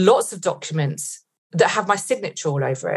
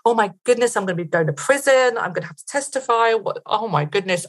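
higher-pitched, mildly panicked worrying; retold panic; 4 semitones higher than usual. Herself lying awake fearing prison, retold mild panic. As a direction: replay anxious thoughts spiralling.

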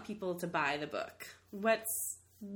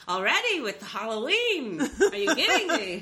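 lightly put-on Jewish accent, laughing; a hint of a kvetching Jewish accent, louder; 4 semitones higher, 7 dB louder than usual. Host mocking early holiday stores in a light Jewish accent. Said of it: "I wanna do a Jewish accent".

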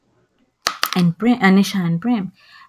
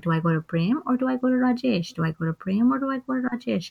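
a lightly voiced dog, higher and wondering; dog's inner voice; 5 semitones higher, faster than usual. Telling the plot, voices the dog deciding where to go, higher. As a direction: play the dog torn between two people, pitched up.

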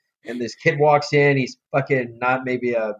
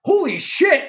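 shocked; slower than usual. Retold or imitated. Boss sees the huge lump.

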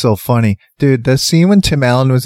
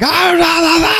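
high la la babble; silly singsong; 14 semitones higher than usual. Retold or imitated. Imitating the alien woman babbling, high singsong. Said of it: "she's like".

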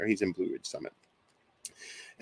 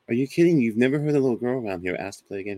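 much higher and louder, then rushing fast; incredulous outburst; 4 semitones higher, 6 dB louder, faster than usual. Retold or imitated. Man retells confronting his father about the voice, loud and rushed. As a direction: disbelief spilling out at his father. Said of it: "I'm like".

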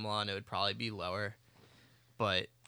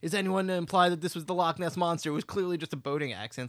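mock yelling police chief; 6 semitones higher, faster than usual. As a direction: bellow the denial like a blustering chief. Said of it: "yelling at the top of his lungs".

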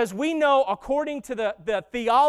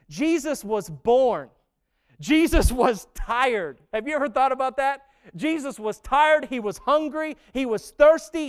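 building preaching litany. Acted.

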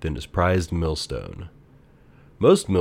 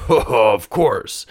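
amused, a little higher and louder; laughing guard; 4 semitones higher, 5 dB louder than usual. A narrator's reading. Guard laughing at the thief's question. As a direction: laugh it off good-naturedly. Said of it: "said the guard, laughing".

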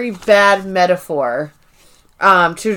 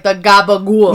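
mock Italian accent; 2 semitones lower than usual. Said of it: "they put these accents on it".

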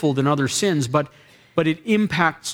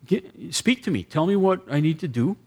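prayer demo; 2 semitones higher than usual. Shown as a demonstration. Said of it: "Well, you say".

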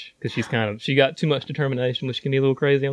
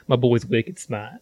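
put-on slow, drawn-out Boston accent; 2 semitones lower, slower than usual. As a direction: lay on a thick Boston accent. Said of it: "It's my Boston accent".

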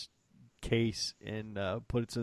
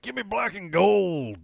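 mock blingy request; 11 semitones higher, 8 dB louder, slower than usual. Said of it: "I'm like".

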